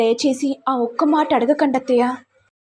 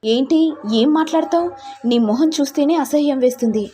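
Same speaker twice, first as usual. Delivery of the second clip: raised, scornful scolding of the wife; a moderate angry husband's rebuke; 4 semitones higher than usual. Acted. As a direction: spit out disgust at her.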